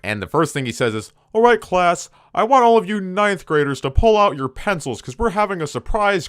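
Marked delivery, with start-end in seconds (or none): 1.3-6.3 high, put-on teacher voice; mock the grumpy teacher, pitched way up; depressed whale teacher. The narrator mocks his math teacher in a high voice. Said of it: "that voice kinda sounds like a really depressed whale".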